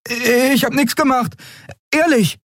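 put-on very high boyish protest; innocent boy Miko. A narrator's reading. Miko swears to Keru he touched nothing. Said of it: "hob unschuldig die Hände".

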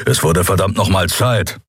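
understated grumpy snort; mildly gruff impatience. Acted. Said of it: "schnaubte Keru".

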